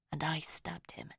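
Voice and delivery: breathless whispered confession; shocked whisper. A narrator's reading. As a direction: barely voice it, horrified. Horrified realisation, whispered.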